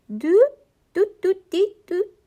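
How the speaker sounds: high little musical doots; soft musical burble. A narrator's reading. Guinea pig greeting Maria, high musical burble. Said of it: "burbled in a soft musical tones".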